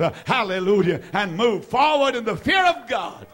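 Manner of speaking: driving, emphatic sermon delivery; fervent preaching. Real, not acted. Preacher urging the congregation to act on faith, fervent. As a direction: preach it in punchy, rhythmic phrases, building.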